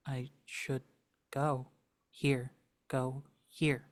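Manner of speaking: wavering, torn creature voice; confused creature. Acted. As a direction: flip between go and stay. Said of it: "it's very confused".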